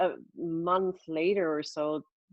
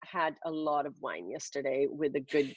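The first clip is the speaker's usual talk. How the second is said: hungover voice. Real, not acted. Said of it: "this is kind of my hungover voice".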